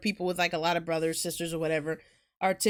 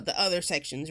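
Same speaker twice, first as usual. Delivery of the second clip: ordinary delivery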